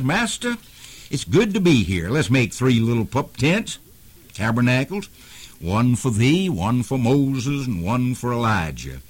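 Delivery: high, eager blurting voice; a lightly voiced eager Peter. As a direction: burst out like an impulsive disciple. Peter's eager outburst to Jesus.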